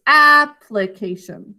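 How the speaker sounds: "application" drawn out, its second syllable reduced; slow "application", light on the "pli"; second syllable unstressed. Shown as a demonstration. Teacher showing the unstressed syllable, slow "application" with weak "pli". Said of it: "now an unstressed syllable".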